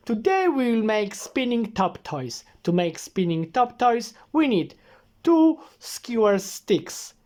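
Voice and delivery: put-on bouncy kids' video host; exaggerated cartoon intonation. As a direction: present it like a cheerful tutorial. Father hosting a toy-making video.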